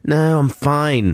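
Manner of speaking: lightly voiced misunderstood man; voicing James's reply.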